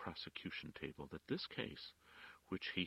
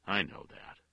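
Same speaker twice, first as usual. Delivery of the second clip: implacable; 3 semitones higher, 8 dB louder than usual. A narrator's reading. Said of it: "in an implacable voice".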